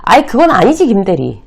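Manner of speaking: a senior barging in on a colleague, loud and curt; rude interruption. Pretend. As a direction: snap in to stop him mid-sentence. Rude senior cutting in demo.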